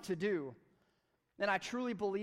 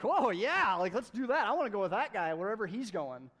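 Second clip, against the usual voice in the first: excited; 6 dB louder than usual. Retold or imitated. Excited listener imitation.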